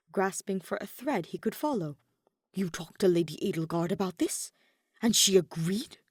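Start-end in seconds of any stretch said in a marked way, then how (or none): 2.5-6.0 a louder incredulous rise on agreed; stunned disbelief. Acted. Hubert asking Ferdinand in shock, incredulous rising question. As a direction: Hubert can hardly believe Edelgard agreed.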